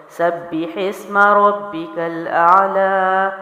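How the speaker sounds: very slow chanted اعلی with a clear ain; Quranic recitation. Shown as a demonstration. Teacher recites from prayer to show ain, slow chant. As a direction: recite slowly in tajweed chant. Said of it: "تو اس کی ادائیگی ہے".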